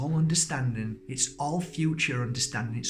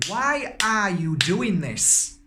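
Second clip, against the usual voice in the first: mock self-scolding; 6 semitones higher, 5 dB louder, much slower than usual. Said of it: "get mad with myself and say".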